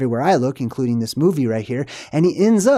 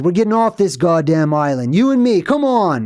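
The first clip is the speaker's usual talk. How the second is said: urgent rallying cry, rising high; rally a partner to escape, pitch leaping up; acted urgent rallying; 3 semitones higher, 4 dB louder than usual. Movie character urging escape in the storm, acted urgency.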